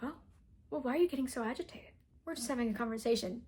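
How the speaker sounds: quick, lightly acted feigned innocence; mock calm reasonableness. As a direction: imitate someone calmly talking you down. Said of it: "he's super calm and level-headed".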